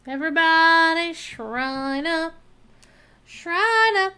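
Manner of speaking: calling out high and loud; rally the group with a shout. Real, not acted.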